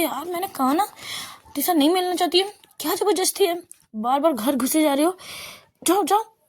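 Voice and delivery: high, sharp exasperated scolding rising to a yell; angry scolding. Acted. Girl drives Aana out of the house, high angry scolding. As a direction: tell her off and push her out.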